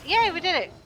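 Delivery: cheerful yay. Real, not acted. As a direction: celebrate the win. Puzzle done, cheering.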